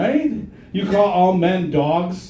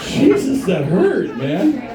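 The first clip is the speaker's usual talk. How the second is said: mock hurt; slower than usual. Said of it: "That was harsh".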